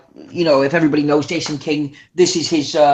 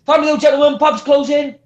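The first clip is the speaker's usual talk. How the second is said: calling out closing time; 7 semitones higher than usual. Retold or imitated. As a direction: sing it out through the toilet doors.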